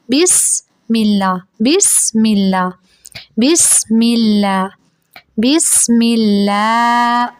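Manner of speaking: بسم اللہ slow, the س hissed steady; slow correct bismillah. Shown as a demonstration. Teacher recites بسم اللہ slowly as a model. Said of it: "بس نہیں پڑھیں گے".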